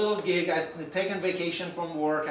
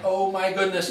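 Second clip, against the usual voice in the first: louder exclamation of acted dismay; 5 dB louder than usual. Late speaker caught in the rain, dismayed. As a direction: retell being caught out, with comic dismay.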